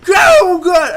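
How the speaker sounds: high, strained, agonized scream; screaming for help. Retold or imitated. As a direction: scream like you're pinned and being crushed. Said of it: "he's screaming, he's like".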